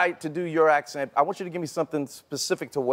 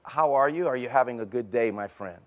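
New Orleans drawl; 5 semitones lower than usual. Shown as a demonstration. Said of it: "This is how you would say".

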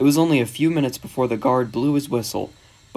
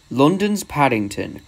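slow, firm correction; insistent. Acted. Duck arguing with Gordon about London, insistent. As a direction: state it as settled fact.

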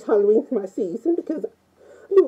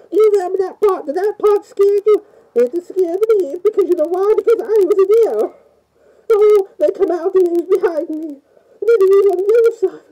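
building mock fright; 5 semitones higher, 3 dB louder than usual. Reliving the scary blackout part.

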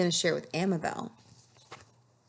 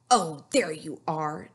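grunted; slower than usual. Acted. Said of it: "Nettie grunted".

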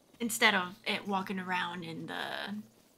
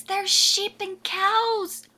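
high, loud, stretched-out outburst of delight; very excited; 11 semitones higher, 7 dB louder, slower than usual. Real, not acted. Streamer spotting sheep and cows in the game, very excited. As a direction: exclaim it high and loud, drawing out the words. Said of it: "I got very excited for a few seconds".

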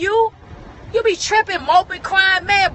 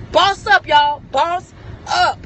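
tearful; slower than usual. Real, not acted. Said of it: "I'm crying tears of joy".

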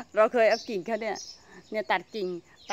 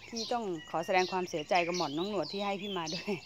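ordinary talk, nothing marked

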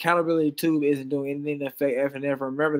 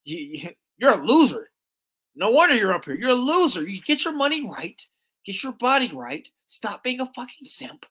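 mock Myron; 7 semitones higher than usual. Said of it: "Myron be like".

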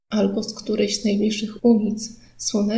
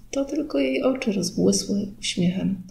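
ordinary delivery

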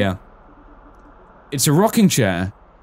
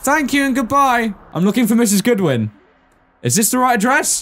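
hammed-up polite caller; 9 semitones higher than usual. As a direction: overplay the polite officer. Hammed bailiff at doors.

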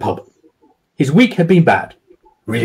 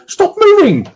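shrill, much higher command; higher shout; 4 dB louder than usual. A narrator's reading. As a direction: yell to freeze the socks. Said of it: "he shouted again".

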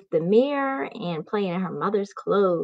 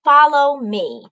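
beckoning invitation; 5 semitones higher, 5 dB louder, slower than usual. Acted. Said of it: "held out her hand and said".

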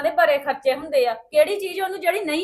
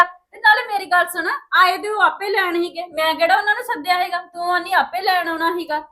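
heated retort; 5 semitones higher than usual. Acted. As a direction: raise the pitch and fire back at her. Quarrel heats up.

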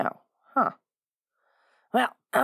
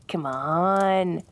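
pleading; 2 semitones lower than usual. Acted. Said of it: "Come on, spill it".

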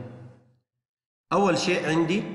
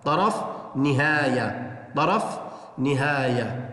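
slow teaching pairing; slower than usual. Shown as a demonstration. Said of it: "طرف الغابة أي نهاية الغابة".

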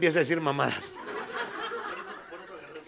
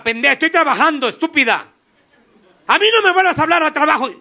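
mock phone rant; 4 semitones higher, 3 dB louder than usual. Pretend phone call, insulting partner.

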